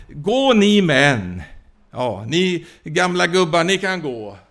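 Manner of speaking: a tyrant keeping the next generation for himself; scornful Pharaoh. Acted. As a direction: sneer at the old men, then claim the young. Pharaoh mocking old men.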